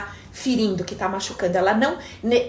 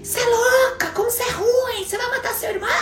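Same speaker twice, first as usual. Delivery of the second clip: high, crying-out reproach of a panicked mother; mother scolding; 12 semitones higher than usual. Retold or imitated. Mother catching her little girl smothering the baby, high crying-out scold. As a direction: shriek it like a horrified mom. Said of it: "E a mãe chega".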